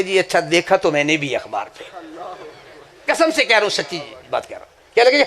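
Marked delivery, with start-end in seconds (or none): 0.0-1.8 sheepish judge. Retold or imitated.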